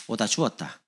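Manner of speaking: offhand Gyeongsang gift line; Gyeongsang dialect. Acted. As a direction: imitate a Gyeongsang speaker handing over a gift. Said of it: "경상도". (무심한 경상도 사투리로)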